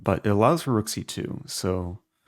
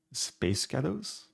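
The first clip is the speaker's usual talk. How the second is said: "Space Ghettos" drawn out slowly in a higher American accent, rising at the end; slow, higher-pitched American accent on "Space Ghettos"; attempted American accent; 6 semitones higher, 5 dB quieter, slower than usual. Shown as a demonstration. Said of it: "say Space Ghettos in an American accent".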